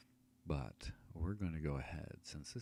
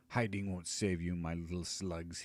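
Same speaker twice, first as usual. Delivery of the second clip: wizard hiss; 4 dB louder than usual. Acted. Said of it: "he hisses".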